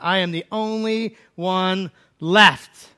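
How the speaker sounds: slow then loud, high desperate plea; Elijah crying out. Acted. Elijah alone in the wilderness, crying out desperately to God. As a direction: cry out to God feeling abandoned. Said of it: "Elijah cries out".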